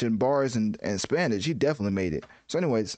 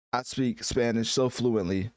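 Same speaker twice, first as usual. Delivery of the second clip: mock boast; slower than usual. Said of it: "you know, all jokes aside".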